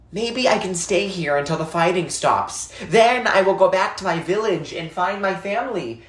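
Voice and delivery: put-on a hopeful boy talking himself into a plan; young boy, hopeful. Salva thinking his plan.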